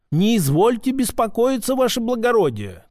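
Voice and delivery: obsequious shopkeeper reassuring a customer; placating shopkeeper. A narrator's reading. Лавочник успокаивает барина.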